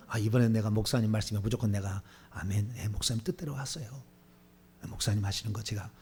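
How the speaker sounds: low, soft self-talk; subdued, acted elder making up his mind; compliant resolve. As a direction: quietly promise yourself to obey. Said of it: "이렇게 마음을 다지고 하는데".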